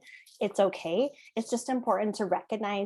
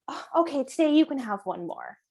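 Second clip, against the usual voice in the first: giving in; 5 semitones higher than usual. Retold or imitated. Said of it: "But if I say".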